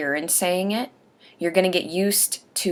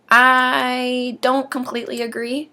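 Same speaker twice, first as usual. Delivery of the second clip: whispering; 7 semitones higher than usual. Real, not acted. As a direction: whisper it like a private aside. Aside against the article.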